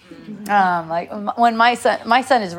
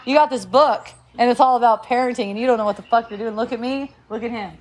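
mock teen rant; faster than usual. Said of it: "my son approached me like, like this".

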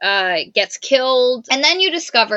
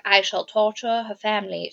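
cold villain; 2 semitones lower, 5 dB quieter than usual. Retold or imitated. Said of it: "she's like".

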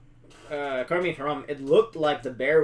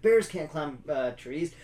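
lightly drawled Southern movie line; a hint of an overdone Southern accent; imitating a cringey Southern accent, understated; mock Southern accent; slower than usual. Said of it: "accentuate those words too far".

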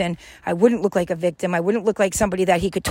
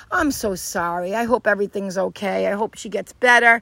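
sincere sympathy. Acted. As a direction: offer gentle sympathy. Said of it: "I connect with her".

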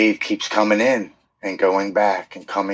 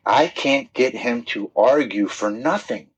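raised, animated retelling of a wife; imitating wife; 4 semitones higher than usual. Husband quoting wife to lifelong friend, imitating her higher. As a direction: retell the wife's words pitched up. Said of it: "And my wife said".

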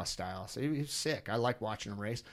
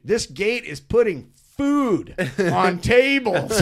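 mocking the rider's words; 5 semitones higher, 11 dB louder, slower than usual. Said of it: "I'm like".

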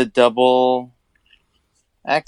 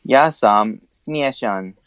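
slow repeat; 3 semitones lower, much slower than usual. Shown as a demonstration. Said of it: "repeat after teacher".

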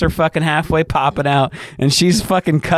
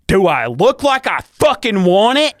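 mock indignant wife; 8 semitones higher, 3 dB louder than usual. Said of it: "And she said".

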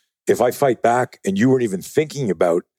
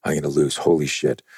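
whispered, then softer panicky mutter; whispered dread of losing the fight; panicked whisper; 5 semitones lower, 4 dB quieter than usual. Retold or imitated. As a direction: let fear hiss out under the breath. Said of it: "Are you going".

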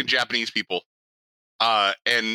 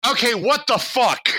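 high, drawn-out exclamation of disbelief; acted disbelief; 11 semitones higher, 4 dB louder, slower than usual. Retelling a friend's reaction to Wikipedia, incredulous outburst. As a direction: blurt it out high and slow, incredulous.

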